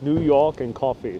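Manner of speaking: stereotypical New York accent. Shown as a demonstration. Vlogger reading a viewer's comment in a New York accent. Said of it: "distracted by making an accent".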